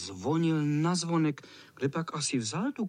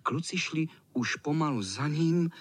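plain reading voice

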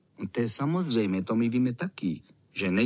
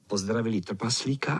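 usual speaking voice

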